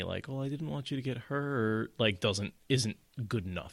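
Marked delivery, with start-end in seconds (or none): 0.3-1.9 higher-pitched mock whine; whiny. Perrin making excuses to her, sort of whiny. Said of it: "sort of whiny".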